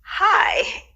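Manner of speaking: an awkward laugh breaking through a greeting; retelling her nervous hello to the family; awkward high hi. Retold or imitated.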